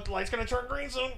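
high-pitched imitation of the driver; mock woman's voice. Driver at a stoplight, imitated in a high voice. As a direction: pitch it up, playing her part comically. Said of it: "she's sitting there going".

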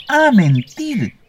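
high, very slow, piercing repeat; furious screech. A narrator's reading. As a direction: screech it out in outrage. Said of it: "chilló furioso".

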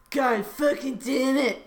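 slow, mock angry curse; struggling frustration. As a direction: curse through a staged struggle. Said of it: "he hisses, struggling".

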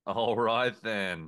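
slow, drawn-out Aussie echo; mock Australian accent. Co-host teasing with a slow mock Australian echo. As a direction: stretch it in a put-on Australian accent. Mimicking the co-host's accented phrase.

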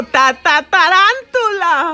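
finally gets the word out in fright; scared stammer. Retold or imitated. Finally naming the spider.

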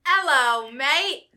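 chirpy fake British hello; British accent. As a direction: play up a mock British accent. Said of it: "this is my British accent".

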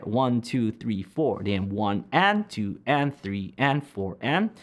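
slow, even spoken beats; slow counting. Shown as a demonstration. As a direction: count it slowly.

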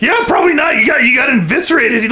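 high frantic exclaiming. Acted. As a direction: blurt it out in a panic. Frantic reply to wounded friend.

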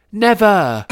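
high, loud, drawn-out cry; defiant shout. A narrator's reading. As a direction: refuse at the top of your voice. Harry's defiant cry to Voldemort.

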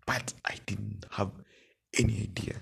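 hushed aside; whispering. Real, not acted. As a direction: drop to a whisper. Confiding aside while telling story.

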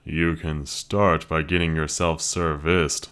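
lightly voiced wry young man; gruff young man. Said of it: "Luke commented".

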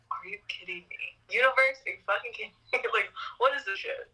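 mock outrage with a laugh, pitch a bit up; exasperated disbelief. To the universe, laughing mock outrage at hard times. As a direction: throw the question at the sky, half laughing. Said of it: "I honestly have to laugh now".

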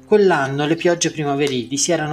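measured novel read-aloud; story narration. A narrator's reading. Teacher reads the pomegranate story to the class, narrating. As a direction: read the story out in even, connected phrases.

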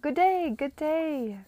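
high, slow, fluttery twitter; twittering greeting. Acted. Missus Griffiths greeting her hostess, high twittering voice. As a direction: chirp it out like a fussy bird. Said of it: "Missus Griffiths twittered".

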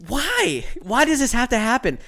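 high, loud cry of dismay; mock despair. Telling friends about the lunatic, hammed-up anguished cry. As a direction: wail it to the sky. Despair over crazy match.

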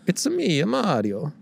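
a hint of the cheerful plumber's Italian accent; Mario. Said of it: "So I do Mario".

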